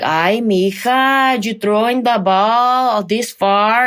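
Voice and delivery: slow, drawn-out imitation of a Latina mom; mom's Latina accent. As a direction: exaggerate a Spanish-accented mother, stretching the vowels. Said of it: "And she would talk like that".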